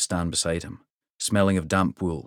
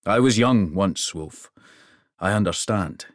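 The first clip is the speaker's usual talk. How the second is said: hearty king; 4 dB louder than usual. Acted. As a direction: speak like a proud giant king. King's hearty voice.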